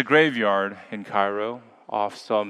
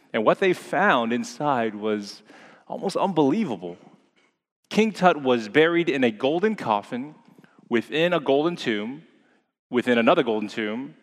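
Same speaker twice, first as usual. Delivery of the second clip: clickbait video narrator. Acted. Building wonder in the story.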